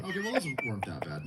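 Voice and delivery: put-on a tired old man whispering relief; whispered aside. Mocking a gassed speaker, whispered. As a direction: whisper it to himself, unvoiced. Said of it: "He's sitting there going".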